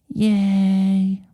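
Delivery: high, light squeak of joy; a sudden happy squeak; squeaky yay. A narrator's reading. Shy girl squeaks yay at her partner, squeaky. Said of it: "She squeaks".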